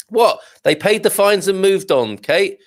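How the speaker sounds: high sarcastic disbelief; mock surprise. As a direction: feign shocked outrage. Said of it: "Just, ju-, just joking".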